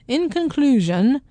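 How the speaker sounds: drawn out, rising announcement; mock sign-off. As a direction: announce it slowly, lifting at the end. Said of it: "let's do that".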